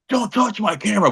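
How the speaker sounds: high-pitched mock objection; imitated indignant protest. Journalist protesting his grabbed camera, imitated high and indignant. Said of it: "and he was like".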